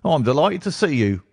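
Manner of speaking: a police inspector warmly welcoming Holmes; hearty inspector. A narrator's reading. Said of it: "said he heartily".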